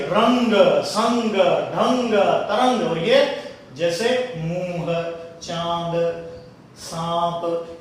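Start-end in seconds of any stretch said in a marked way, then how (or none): 0.1-2.9 रंग, संग, ढंग, तरंग each with a strong nasal "ng"; रंग, संग, ढंग, तरंग slow and forceful through the nose; anusvara examples. Shown as a demonstration. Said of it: "ऐसे ही". 4.4-7.8 मुंह, चांद, सांप slow, with nasal vowels and little force; मुंह, चांद, सांप with the vowel nasalised, no hard "n"; light nasalisation. Shown as a demonstration. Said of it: "इसमें जोर कम लगता है".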